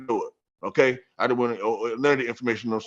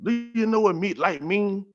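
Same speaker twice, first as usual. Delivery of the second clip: higher, needling question from the inner self; a raised, goading inner voice asking the question; inner self mocking; 6 semitones higher than usual. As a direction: tease him with the question, pitched up. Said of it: "That's what my me said now to myself".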